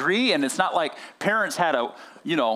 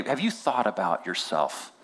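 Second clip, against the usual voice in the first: slow, lower-pitched gentle question; gentle, thoughtful; 5 semitones lower, 3 dB quieter than usual. Retold or imitated. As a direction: imitate a mentor carefully nudging. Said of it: "a gentle approach".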